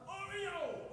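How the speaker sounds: high, soft imitation of a calling daughter; mock holler. Daughter hollering to the lost dog, soft mock call. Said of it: "And she hollered".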